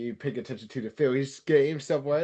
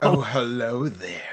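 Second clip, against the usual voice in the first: sexy voice; 2 semitones lower than usual. Pretend. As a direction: purr it like a flirt. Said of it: "your best sexy voice".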